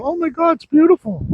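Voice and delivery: high, breathless gushing over wood; mock gushing buyer. Sawmill owner mimicking a delighted craft buyer. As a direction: swoon over the ugly board.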